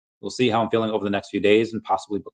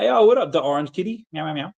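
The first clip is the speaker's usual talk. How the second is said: much higher yo, then meows; excited cat greeting; 6 semitones higher than usual. Real, not acted. Greeting the Orange Kitty chatter with excited meows. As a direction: greet a buddy with playful meows.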